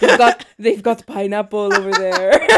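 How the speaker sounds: put-on Dad's Mexican accent, half-laughed. Daughter imitating dad spotting pineapples, light Mexican accent. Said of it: "my dad has a very thick Mexican accent".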